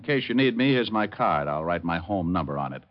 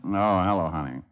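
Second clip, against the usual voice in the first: sleepy tender greeting; 3 semitones lower than usual. Acted. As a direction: murmur it lovingly from a dream. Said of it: "Oh, I was dreaming".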